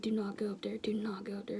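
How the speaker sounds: hushed warning to a friend; whispered plea, don't go; urgent whisper. Retold or imitated. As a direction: whisper it sharply so nobody hears.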